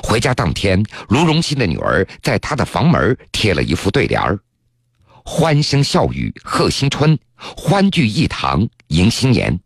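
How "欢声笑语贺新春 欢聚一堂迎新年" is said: slow recitation. Acted. Reading out the couplet.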